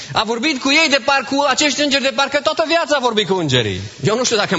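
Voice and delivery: high, ringing preacher's voice; fervent preaching. Acted. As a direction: lift it up to the congregation. Preacher at full force.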